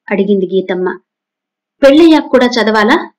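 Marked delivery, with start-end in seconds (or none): 1.8-3.1 higher and louder, flaring up at mum; indignant outburst. Acted. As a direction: daughter snaps at nagging mother. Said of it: "అంటూ ఎగిరిపడింది".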